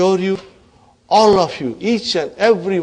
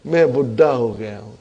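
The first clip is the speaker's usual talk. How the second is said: fast, lower mumbled excuse; mock excuse; 4 semitones lower, much faster than usual. Teacher mimicking a student who says he is too old, fast mumble. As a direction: rattle off a lazy student's excuse. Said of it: "Yeah, you will say".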